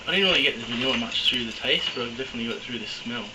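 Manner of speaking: mouth on fire. Real, not acted. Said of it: "it's hard to talk 'cause my mouth is on fire".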